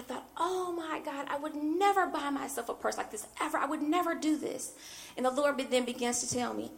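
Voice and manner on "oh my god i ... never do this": higher, softer re-enacted overwhelm; a touch of weepy disbelief; mock tearful. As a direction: lightly act out being moved to tears. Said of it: "I'm just sitting on the bed crying".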